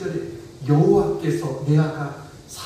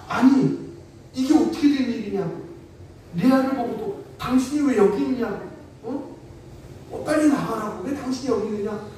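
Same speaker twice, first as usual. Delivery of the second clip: indignant protest; 4 semitones higher than usual. Retold or imitated. Jacob demanding answers from his uncle, mock outrage. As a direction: confront him, half acted, half told. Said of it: "외삼촌에게 따졌겠어요".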